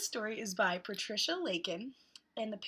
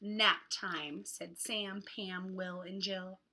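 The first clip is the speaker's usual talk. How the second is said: hot; much slower than usual. Acted. Reads picture book to children.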